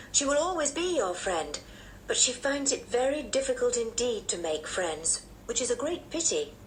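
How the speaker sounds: a hint of a gentle aunt; lightly voiced, motherly aunt; kindly aunt. Aunt describes Georgina.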